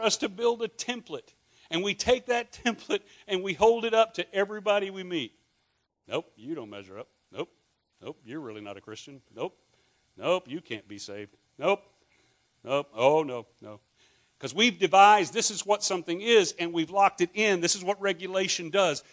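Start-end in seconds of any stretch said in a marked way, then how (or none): 6.1-13.8 mock dismissive rejections in a lower voice; a lightly voiced smug gatekeeper brushing people off; judgmental church member. Preacher mocking church people rejecting newcomers, lower and dismissive.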